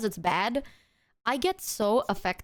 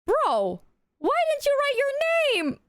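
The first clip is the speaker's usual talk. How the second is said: mocking the friend; slower than usual. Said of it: "He was like".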